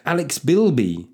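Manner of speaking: slow, drawn-out name announcement; announcing a patron's name; hype call. Acted. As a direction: stretch out the name. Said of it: "do a very quick hype here".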